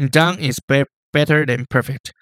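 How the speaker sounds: slow, each syllable split apart; choppy word-by-word English. Shown as a demonstration. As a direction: chop it into separate words. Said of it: "你把你刚刚讲的英文再讲一次".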